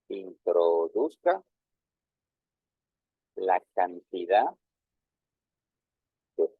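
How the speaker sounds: slow, drawn-out dictation while typing; teacher dictating the on-screen text word by word. Shown as a demonstration. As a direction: spell it out slowly as you type.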